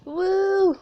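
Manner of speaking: loud, high robot coo; high-pitched excited bot call; cute robot noise. Acted. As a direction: whoop like a tiny bot. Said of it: "the sounds he always makes".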